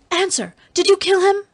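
high-pitched impassioned demand; passionate cry. Acted. Dalisa interrogating her prisoner, high passionate cry. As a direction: cry out, desperate for the answer. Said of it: "in a passion she cried".

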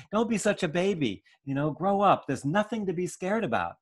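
high, loud impatient scolding; harsh scolding father. Retold or imitated. Irritated father scolding his scared child, loud and harsh. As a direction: snap at the child to toughen up.

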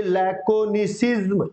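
लैकोनिसिज्म broken into slow syllables; pronunciation demo. Shown as a demonstration. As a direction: model लैकोनिसिज्म slowly for students. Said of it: "सिर्फ pronunciation करना है".

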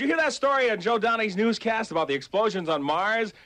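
upbeat sixties DJ over the music; radio DJ patter. Acted. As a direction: hype the station between records.

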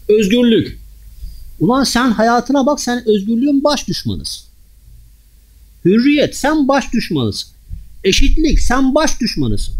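high, loud, slow denunciation; fiery preaching. Real, not acted. Preacher denounces hypocrites to the congregation, fiery and loud. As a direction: hammer each charge home.

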